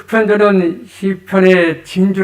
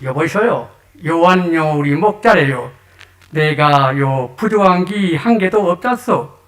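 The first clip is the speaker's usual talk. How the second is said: lightly voiced Gangwon dialect; a hint of Gangwon country speech. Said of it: "강원도 버전입니다". (살짝 흉내 낸 강원도 사투리)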